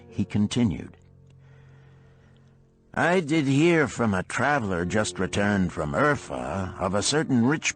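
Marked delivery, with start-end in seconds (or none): 2.9-7.8 brash orders. A narrator's reading. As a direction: bark his food order across the room. Dabasir tells news at table.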